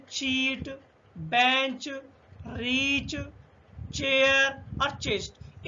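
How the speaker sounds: चीट, बेंच, रीच, चेयर, चेस्ट slowly with CH; slow, separated चीट, बेंच, रीच, चेयर, चेस्ट with clear CH; CH sound. Shown as a demonstration. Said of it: "शा का pronunciation देखते हैं".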